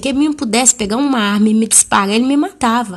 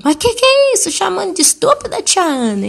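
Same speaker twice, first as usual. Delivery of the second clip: shocked uncle, much higher; outraged disbelief; 10 semitones higher than usual. Retold or imitated. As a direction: gasp it out in mock indignation. Husband outraged at insult.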